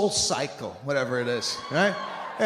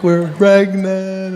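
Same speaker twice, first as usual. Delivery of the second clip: mock announcement; 2 semitones higher, 8 dB louder, much slower than usual. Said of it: "and, like".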